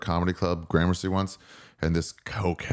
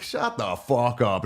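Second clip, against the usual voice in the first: slow, drawn-out put-down, pitched up; mock taunting; 4 semitones higher, slower than usual. Comic taunting a cokehead from safety, mock defiant. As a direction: drag out each word to goad him. Storyteller retells taunting the heckler.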